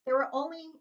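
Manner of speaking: plain reading voice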